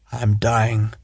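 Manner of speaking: quiet, calm statement of dying. A narrator's reading. Wounded lord telling Sharp he is dying, softly calm. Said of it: "He said it very calmly".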